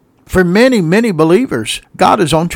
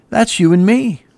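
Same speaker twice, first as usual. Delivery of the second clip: raised pitch at normal volume; pointed emphasis; 5 semitones higher than usual. Real, not acted. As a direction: press "That's you and me" on the listeners. Applies it to listeners, then repeats.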